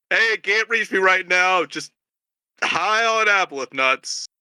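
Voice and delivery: lazy, slowed voicemail message; lightly voiced stoned lawyer; stoned voicemail greeting. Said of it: "each time it's just another".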